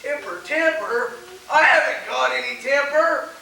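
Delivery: high, indignant protest rising into a shout; losing his temper. Acted. Henry denying his temper to an old buddy, angry protest. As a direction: hotly deny having any temper. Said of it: "putting on a good impression of a person who has".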